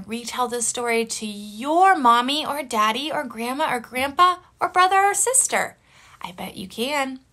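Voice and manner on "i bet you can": secret whisper. Real, not acted. Teacher encourages kids.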